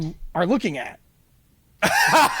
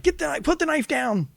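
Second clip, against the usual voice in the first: retold yell; 7 semitones higher than usual. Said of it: "I think I yelled".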